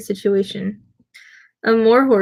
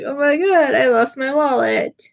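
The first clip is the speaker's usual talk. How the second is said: higher-pitched, imitated panic; mock freak-out; 5 semitones higher, slower than usual. Kitty realizing her wallet is gone, mildly freaking out. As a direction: lightly act out a friend panicking. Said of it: "She was, like, freaking out".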